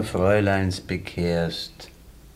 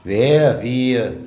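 indignant retort; 2 semitones higher, 7 dB louder than usual. Acted. Indignant at the accusation.

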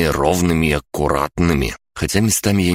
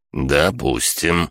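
put-on very old man; much slower than usual. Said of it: "прозвучал ответ".

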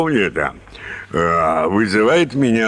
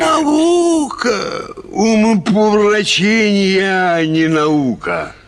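"Наука!" flung out much higher in scorn; scornful outburst; 9 semitones higher than usual. Acted. Mocking his friend's excuse, a scornful high outburst. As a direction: spit the word back in contempt.

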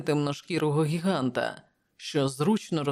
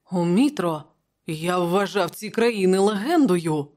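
mild astonishment; 3 semitones higher, 4 dB louder than usual. Acted. Prospero looks at Conan's map, mildly astonished. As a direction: let some wonder lift the voice. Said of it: "Просперо здивовано дивився на карту".

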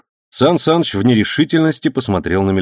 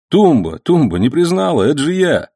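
calling the dog; 8 semitones higher, 3 dB louder than usual. Acted. Egor calls to the dog.

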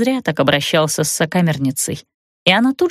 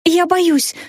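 put-on much higher, childlike scared cry; frightened cry; 9 semitones higher than usual. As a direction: cry out like a scared little girl. Frightened woman keeps crying out.

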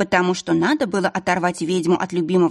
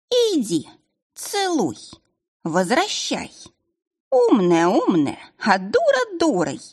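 put-on cranky old witch. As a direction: snap at her like an impatient hag. Old witch scolds Agnes.

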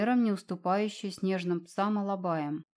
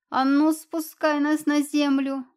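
furious shout; 7 semitones higher, 8 dB louder, slower than usual. A narrator's reading. Cat furious at the dragon.

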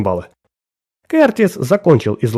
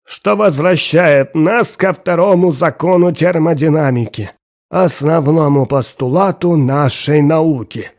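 put-on old professor lecturing; 4 semitones higher than usual. Professor lecturing, voiced figure.

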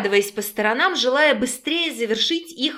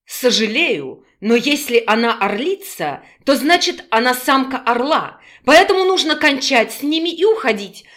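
put-on urgent, louder older man; lightly voiced older scientist; 4 dB louder than usual. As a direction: hurry them along firmly.

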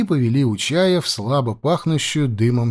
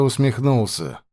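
ordinary delivery, nothing marked

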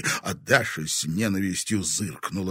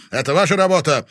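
loud, higher accusing yell; angry shout; 7 semitones higher, 11 dB louder, faster than usual. A narrator's reading. Sheriff angrily shouts accusation at the teens. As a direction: accuse them at full voice. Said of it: "разъярённо крикнул Владимир".

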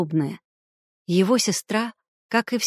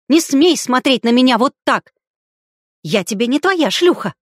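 loud, higher, hysterical outburst; hysterical shout; 5 semitones higher, 7 dB louder than usual. A narrator's reading. Hysterical woman yelling at a man at the table, loud. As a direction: scream it at him, out of control.

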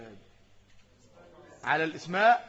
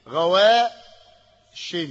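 غواش held very long and louder; drawn-out example word; 2 semitones higher, 7 dB louder, much slower than usual. Shown as a demonstration. Teacher stretching an example word for the class. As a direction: pull غواش out slowly to show the tanween. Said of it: "جوار".

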